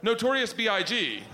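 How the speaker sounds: put-on high, unsure kid's voice; sheepish daughter. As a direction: imitate a daughter asking in high-pitched doubt. Daughter sheepishly admits her answer.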